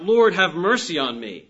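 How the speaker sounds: preacher voicing sinners crying out for mercy. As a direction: call it out, imitating a plea. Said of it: "sinners cry out".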